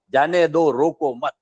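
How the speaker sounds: normal talking voice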